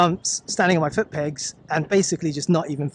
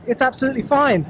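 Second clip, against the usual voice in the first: higher, brighter relief; relieved excitement; 7 semitones higher, faster than usual. Real, not acted. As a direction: sigh out the relief, lifted. Relief after bumpy shortcut.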